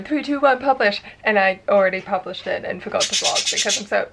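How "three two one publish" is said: loud, higher mock countdown; dramatic countdown. Vlogger showing the countdown she meant to do, mock dramatic. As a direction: count down like a big launch. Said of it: "a dramatic vlog countdown going".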